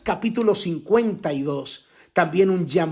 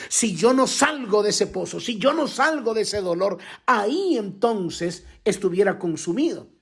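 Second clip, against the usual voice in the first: impassioned preaching; 5 semitones higher than usual. Acted. Pastor testifying to the congregation about rising from grief, high and insistent. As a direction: hammer home each si yo no.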